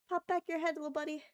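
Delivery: high, soft little plea; gentle coaxing. Real, not acted. Streamer talks to the hidden possum, coaxing. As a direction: coax softly, as to a small animal.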